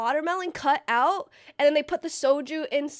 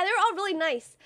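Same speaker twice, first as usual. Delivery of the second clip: ordinary delivery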